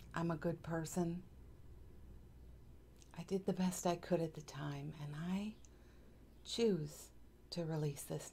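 calm meditation guide with long pauses; unhurried, even guiding voice; guided meditation. Acted. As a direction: lead them gently through breaths and affirmations, pausing between phrases.

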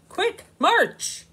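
loud, high barked order; shout. Acted. Slug shouting at sleepy Bug, loud order. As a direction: snap the order out. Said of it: "shouts Slug".

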